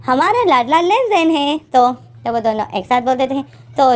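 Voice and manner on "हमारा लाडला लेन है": slow, higher, drawn-out sing-song; affectionate declaration. Acted. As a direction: coax someone out of a sulk. Two cajole sulking Lane together.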